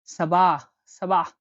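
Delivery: সাবাহ with a heavy, deep স and a full ah; deep sad. Shown as a demonstration. Teacher showing the deep Arabic s sound, heavy and dark. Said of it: "গভীরভাবে বলতে হয়".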